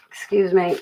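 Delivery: whispered apology; a whispered aside. Real, not acted. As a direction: breathe it out unvoiced. Apologizes for multitasking.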